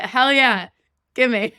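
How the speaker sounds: mock eager grab for the food; eager yes. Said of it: "I'd be like".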